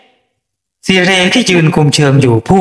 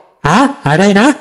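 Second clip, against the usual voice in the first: surprised; 5 semitones higher, much slower than usual. Acted. Boss hears man died.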